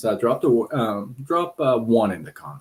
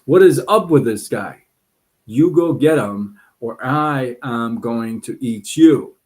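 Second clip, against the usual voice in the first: angry lion threat; 5 dB louder than usual. Acted. Lion getting even more mad.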